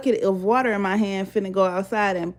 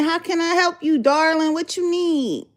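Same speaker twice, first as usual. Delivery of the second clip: lightly voiced sweet neighbor, higher; mock-sugary higher voice; a touch of a flirty neighbor; imitating neighbor; 8 semitones higher than usual. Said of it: "she's saying".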